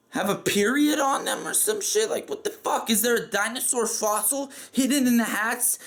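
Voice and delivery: high-pitched, hammed-up indignation without shouting; mock outraged rant. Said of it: "I went off on him".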